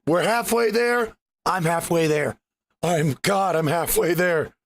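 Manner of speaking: raspy wrecked throat; hoarse voice. Real, not acted. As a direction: talk through a sore throat. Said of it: "My throat is wrecked today".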